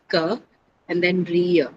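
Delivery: ka and riya split into two separate syllables. Shown as a demonstration. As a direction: break career into ka then riya. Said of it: "It has only two syllables".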